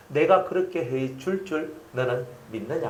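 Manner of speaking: slow, solemn questioning; voice of God. Retold or imitated. God asking the pastor whether he believes, slow and solemn. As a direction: ask it slowly and gravely. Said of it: "하나님께서 ... 뭘 원했냐면".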